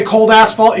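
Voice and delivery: "cold asphalt" with each word carefully separated; careful enunciation. Shown as a demonstration. Presenter warning how to say the product name, carefully enunciated. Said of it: "gotta say it real, real slowly".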